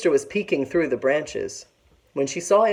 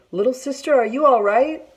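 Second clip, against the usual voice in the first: nervous call; 10 semitones higher, 3 dB louder than usual. A narrator's reading. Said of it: "asked nervously".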